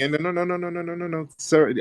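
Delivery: high, insistent "no, no, no"; firm interruption. Real, not acted. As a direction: cut him off firmly. Host stopping caller again.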